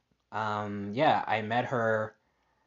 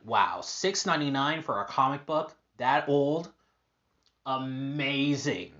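excited; 4 semitones higher than usual. Retold or imitated. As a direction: recall the thrill of a great find. Retold delight at a cheap comic.

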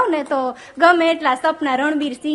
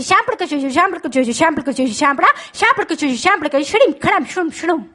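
mock gibberish. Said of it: "repeat કરું".

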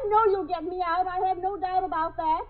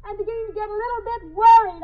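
repeating louder; 6 dB louder than usual. Acted. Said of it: "I said".

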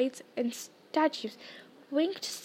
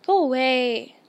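loud, cross brush-off; irritated dismissal; 6 dB louder, slower than usual. Acted. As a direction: send the scold packing. Ron rebuffs scolding Hermione.

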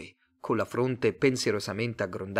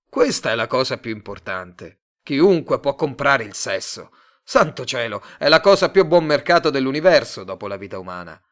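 louder, smooth pushy salesman; salesman Tate; 7 dB louder than usual. Acted. Tate pitching his love firm to Simon, louder slick salesman. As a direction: sell it to him, eager and slick.

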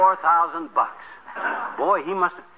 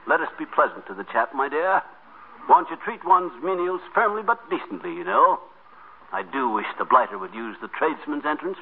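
fake posh British. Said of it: "your lordship".

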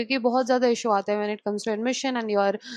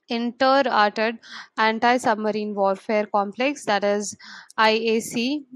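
slow dictation. Shown as a demonstration. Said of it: "I will read it again".

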